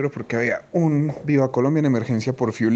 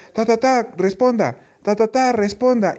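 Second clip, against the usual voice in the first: a hint of a breaking voice, imitated higher; 9 semitones higher, slower than usual. Controller calling the silent plane, a touch of breaking voice. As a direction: call out with a slight crack of worry. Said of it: "se le quebró la voz".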